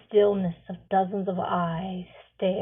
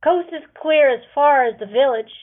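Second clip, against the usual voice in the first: loud, higher call from a treetop; yelled out; 5 semitones higher, 10 dB louder than usual. A narrator's reading. A lookout yells down from a tree, loud. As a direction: call it down from a high birch. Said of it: "a man's voice yells out".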